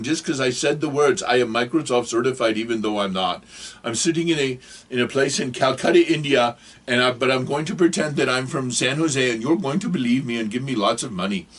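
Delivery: lightly put-on Indian scammer accent; bad Indian accent. Scammer in Calcutta pretending San Jose, light Indian accent. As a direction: confide the con in a mock Indian accent. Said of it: "I'm sorry for the bad accent".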